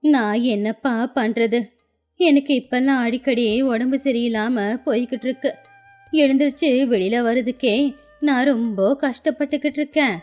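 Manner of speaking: lightly voiced sorrowful old woman; tearful old grandmother. Old woman tells Raju she is ailing, mildly tearful. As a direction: confide your troubles with a touch of sadness. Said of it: "கண்ணுல கண்ணீரோட".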